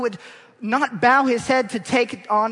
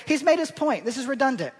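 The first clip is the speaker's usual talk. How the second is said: mock congregation aside; 4 semitones higher, faster than usual. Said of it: "turn to your neighbor on the other side and say".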